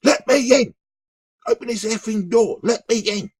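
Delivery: high, loud yell at a locked door; retold yelling. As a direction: shout to be let in, pounding the door. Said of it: "the woman banging on the guy's door".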